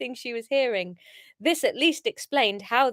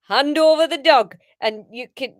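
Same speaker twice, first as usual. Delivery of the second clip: failed Geordie; 7 dB louder than usual. Acted. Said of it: "no, that's not Geordie".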